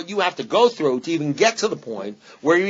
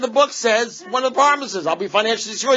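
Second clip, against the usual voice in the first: much higher pitched, whiny insistence; mock indignant protest; 8 semitones higher than usual. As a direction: plead your case to the sponsor. Retold arguing with his sponsor.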